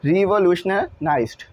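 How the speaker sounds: "रिवोल्यूशनलाइज्ड" slowly, broken before the ending; careful tricky word. Shown as a demonstration. Teacher struggling with the word, careful "रिवोल्यूशनलाइज्ड". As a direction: work carefully through "रिवोल्यूशनलाइज्ड" in chunks. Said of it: "ज़ुबान पे आने में मुश्किल हो रहा है".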